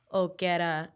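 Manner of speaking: put-on half-hearted Russian coach accent; a brief stab at a Russian accent; attempted Russian accent. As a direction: try a Russian accent and give up on it. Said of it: "I can't do an accent".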